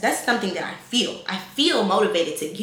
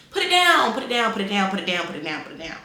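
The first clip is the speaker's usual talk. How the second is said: mock shout fading away; faster than usual. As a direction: yell it, then let it fade out. Ordering girls to drop phone.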